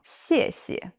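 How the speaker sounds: xie xie, first xie dropping sharply, second light and short; xie xie, falling then neutral. Shown as a demonstration. Teacher models thank you, clear falling tone. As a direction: xie xie with a firm fall then a soft neutral. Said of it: "falling tone".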